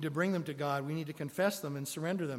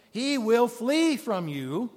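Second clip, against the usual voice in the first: slower and louder, each word set apart; slow emphatic correction; 6 semitones higher, 7 dB louder, slower than usual. Acted. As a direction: land the promise, slow and strong. Corrects himself with the verse.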